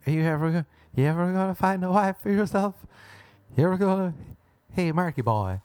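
lightly voiced folksy parent; a hint of old homestead parent; prairie parent. Parents at home nagging son about a wife, lightly folksy. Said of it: "speak like they're in a little house in the prairie".

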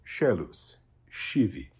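scelus and scivi begun with an SH sound; soft SH pronunciation. Shown as a demonstration. Teacher shows students ecclesiastical Latin SC, scelus, scivi with SH. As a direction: say scelus and scivi slowly, SC as English SH. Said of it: "is an S H sound in ecclesiastical Latin".

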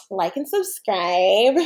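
slow, sweet beauty vlogger sign-off; YouTube beauty guru voice. Pretend. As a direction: coo it like a makeup tutorial host. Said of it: "I guess in my best, uh, YouTube beauty guru voice".

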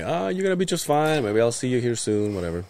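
soft reassuring murmur; quiet. Retold or imitated. Nephew softly reassuring his aunt. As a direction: keep it soft and light. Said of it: "And I'm like".

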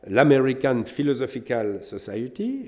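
English name said with a French accent. Real, not acted. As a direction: read the English title the French way. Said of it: "excusez mon accent".

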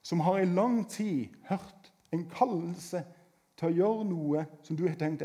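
ordinary talk

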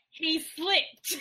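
"slipped" set off as a doubtful word; air quotes on "slipped". Real, not acted. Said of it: "making air quotes right now".

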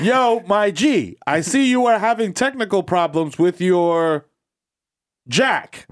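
slow, stilted mock Indian accent; Indian agent reading slang. Agent reading phrases off laminated card, slow Indian accent. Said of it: "got the laminated card right there".

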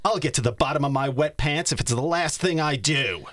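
lightly voiced huffy bear; Ruben voice. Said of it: "So this is Ruben".

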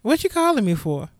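mildly brusque, imitated mother; imitating mother's unimpressed greeting. Mother answering her child's call, mildly brusque. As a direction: ask it like an unbothered mother. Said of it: "This is exactly how she said it".

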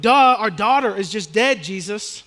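incredulous "duh", as if stating the obvious; exasperated duh. Pretend. Pastor playing the grieving family answering Jesus, exasperated. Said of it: "I wanna be like".

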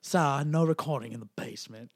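badly faked Hungarian guard, British-sounding; bad Hungarian accent. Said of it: "do your best accent. ... Hungarian? ... that was British".

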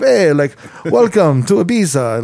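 playful hint of a European party host accent; mock European accent. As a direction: imitate a DJ's put-on European accent. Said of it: "Like, he had this accent".

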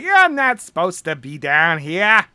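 lightly voiced big coach, drawn out; slow, attempted coach accent. Guard scolding an intruder, lightly voiced big coach. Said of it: "trying to sound like a big coach".

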